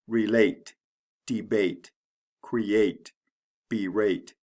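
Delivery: relate, debate, create, berate, each stressed on the second syllable; re-LATE, de-BATE, cre-ATE, be-RATE, spaced out. Shown as a demonstration. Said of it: "the second syllable is stressed".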